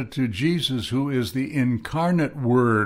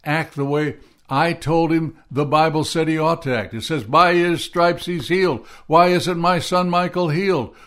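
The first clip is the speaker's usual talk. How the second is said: raised, louder anguished demands to God; retold yelling at God; 4 semitones higher, 3 dB louder than usual. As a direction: replay the angry plea, a bit louder and higher. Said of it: "yelling at God".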